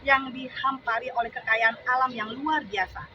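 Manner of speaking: deliberate declaiming that lifts toward the refrain; poem recitation. Acted. Reciting a poem about national wealth to supporters, declamatory. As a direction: recite protest verse, stressing each phrase.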